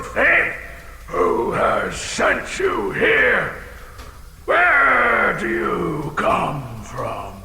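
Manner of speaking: slow, shouted demands; dragon interrogation. Acted. Dragon demanding answers from the thief, slow booming shout. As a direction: bellow the questions down at him.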